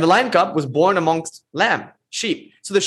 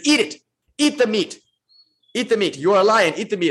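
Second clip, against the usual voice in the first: commanding guru lion; 5 semitones higher than usual. Retold or imitated. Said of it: "and says".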